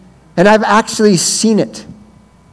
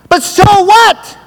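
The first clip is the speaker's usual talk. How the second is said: challenging so what; 12 semitones higher, slower than usual. Retold or imitated. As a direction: throw the question at them. Provocative challenge to crowd.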